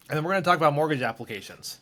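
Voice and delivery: talking while choking. Real, not acted. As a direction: voice catching in the throat. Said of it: "Sorry, I'm choking".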